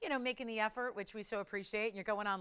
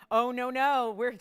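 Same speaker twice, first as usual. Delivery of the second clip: loud; 9 dB louder than usual. Acted. Host teasing bigger price drop.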